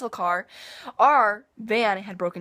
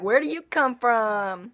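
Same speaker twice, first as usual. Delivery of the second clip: higher, drawn-out mock curiosity; imitating fascinated classmates; 4 semitones higher, 4 dB louder, slower than usual. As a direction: stretch out the question like an intrigued classmate. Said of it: "And like".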